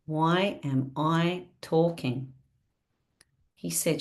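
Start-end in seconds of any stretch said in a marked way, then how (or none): 0.1-2.3 each word slow and deliberate, "Why" leaned on; slow spelled-out acronym. Shown as a demonstration. Coach on a call spelling out the WAIT acronym, slow and deliberate. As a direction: spell out the meaning of WAIT slowly. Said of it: "do you know what it stands for".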